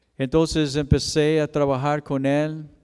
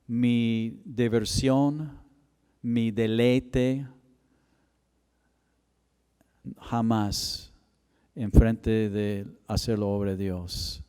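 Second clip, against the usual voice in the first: solemn vow; slower than usual. Retold or imitated.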